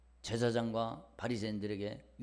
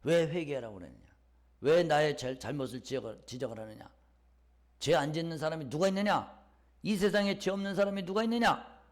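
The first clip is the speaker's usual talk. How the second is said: indignant retort, building in pitch; mock outburst, rising as it goes; acted indignation; 4 dB louder than usual. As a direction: mimic someone losing their temper when challenged. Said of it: "이러면서 막 성질을 부립니다".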